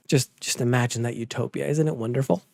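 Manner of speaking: dry, quiet mock praise; sarcastic. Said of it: "That was sarcasm".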